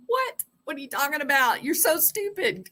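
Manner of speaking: high mocking squeal; high, scornful made-up heckler; mocking people. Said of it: "People are like".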